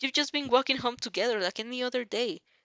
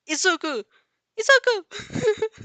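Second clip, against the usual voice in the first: calling out his name in panic, higher and louder; desperate shout; 13 semitones higher, 10 dB louder, slower than usual. Acted. Girl screams her friend's name as the slime takes him, in panic. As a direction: scream for your friend as he's swallowed.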